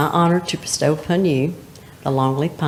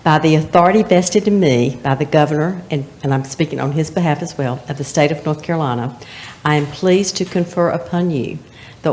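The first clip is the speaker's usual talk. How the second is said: official proclamation. Acted. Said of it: "this is gonna sound very official".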